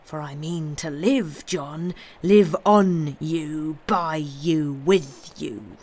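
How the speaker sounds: menacing. Acted. Avenger states his demands.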